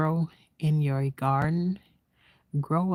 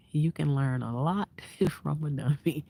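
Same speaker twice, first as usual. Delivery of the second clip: laughing through it. Real, not acted.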